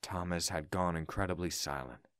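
low, subdued storytelling; sombre narration. A narrator's reading. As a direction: narrate the grief softly and low. Narrates grief after the death.

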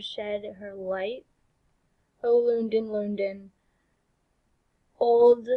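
measured verse recital, falling away at line ends; spoken song lyrics. Acted. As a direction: recite it solemnly without singing. Reads song lyrics without singing.

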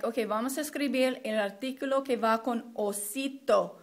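lightly acted teacher leading the class; modeling teacher. Shown as a demonstration. Teacher prompts class on the article for osito, lightly acted classroom modeling. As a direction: model it clearly for pupils to repeat. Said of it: "you would say something like".

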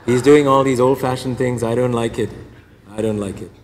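hammed-up complaining churchgoer, laughing through it; grumbling penitent. Penitent complaining about others.

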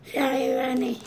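cheeks stuffed full. Real, not acted. More marshmallows stuffed in mouth.

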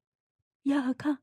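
very slow, soft pleading breath; near whisper. Acted. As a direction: breathe it out like a secret. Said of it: "เธอพูดเหมือนกระซิบ". (กระซิบแผ่วเบาช้าๆ)

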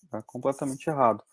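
ordinary talk, nothing marked

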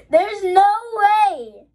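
high, loud, drawn-out cry; slow high wail of disbelief. Real, not acted. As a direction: burst out in amazement, stretching it. Disbelief bursting out at rare pull.

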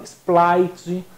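Sprite said as "Splaitchi", drawn out; popular mispronunciation. Retold or imitated. Teacher mimics how people order a soda, mispronounced Sprite. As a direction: imitate folk saying Sprite with an L, "Splaitchi". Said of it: "cansou de ouvir o povo chamando".

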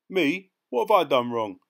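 loud, high-pitched protest; indignant surprise. Acted. Passenger protesting to the policeman, loudly indignant. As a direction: protest innocence, pitch leaping up.

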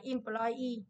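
"employee" drawn out, stressed on EE; stress on last syllable. Shown as a demonstration. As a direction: slowly stretch "employee" toward its final syllable. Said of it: "rơi vào y nhá".

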